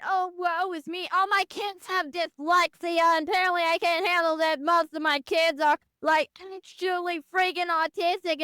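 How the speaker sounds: hammed-up teacher lament, a touch of mockery; mock woe-is-me teacher. Student mimicking teachers who complain about kids, mock lament. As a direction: imitate a complaining teacher, lightly overdone. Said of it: "now their teacher's going".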